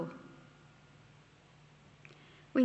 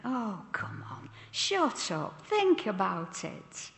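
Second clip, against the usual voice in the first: joking. Shown as a demonstration. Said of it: "if I say it jokingly".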